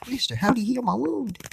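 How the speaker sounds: put-on high, fast child voice; curious child quizzing the magician; little kid voice. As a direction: ask it like an amazed little girl. Child asks about healing.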